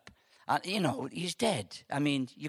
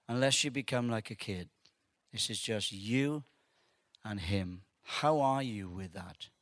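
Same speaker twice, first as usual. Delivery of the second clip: prayerful invitation; 3 semitones lower than usual. Real, not acted. Preacher asking listeners with closed eyes to reflect, prayerful. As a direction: guide them gently inward, with long pauses.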